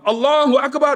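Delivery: imam's takbir. Retold or imitated. Imam starts the funeral prayer, high ringing takbir. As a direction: call it out high, as leading the prayer.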